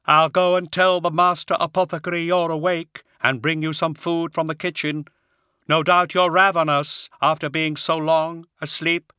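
high hollow unearthly voice; grave, otherworldly brother. A narrator's reading. Attias voiced.

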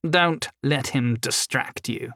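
lightly voiced sinister elf, slowed down; creepy elf voice. Elf warns his partner about the prisoner, lightly creepy and slow. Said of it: "in a voice as creepy as the rest of him".

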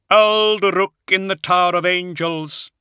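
high, loud, slow hollow voice. A narrator's reading. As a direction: answer like a hollow-voiced death mask. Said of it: "in his hollow voice".

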